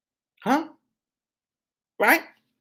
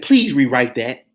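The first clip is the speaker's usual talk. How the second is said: Please rewrite that said slowly and firmly, each word weighed; slow, firm appeal to a friend to rewrite her post; slow, firm advice. Retold or imitated. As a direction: lean on Please, slow and deliberate. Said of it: "I said".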